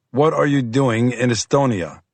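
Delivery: firm and direct. Acted. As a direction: ask it firmly. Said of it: "he said firmly".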